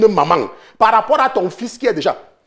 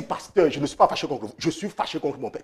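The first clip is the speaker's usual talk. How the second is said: much softer and lower, hushed; quiet complaining caller; 5 semitones lower, 7 dB quieter than usual. Retold or imitated. Pastor imitating a young woman telling him her anger. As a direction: lay the grievance down softly.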